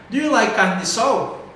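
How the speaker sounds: "Do you like carne de sol" held up high; high question intonation. Shown as a demonstration. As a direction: lift "Do you like carne de sol" for learners to repeat. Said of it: "Entonação lá em cima".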